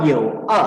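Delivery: "yo e" in Mandarin third and first tones; third then first tone. Shown as a demonstration. Teacher showing students the tones of "yo e", third then first tone. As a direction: say "yo e" with tone three, then tone one. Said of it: "dengan nada tiga dan satu".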